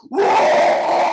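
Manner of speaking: loud, high fake whoa; mock surprised whoa. Dad feigning shock after hitting the bully, loud mock whoa. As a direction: play innocent with a big shouted whoa.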